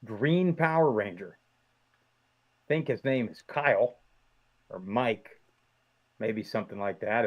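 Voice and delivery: muffled through a costume mask; talking from behind a full face mask. Real, not acted. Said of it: "If my voice is a little muffled".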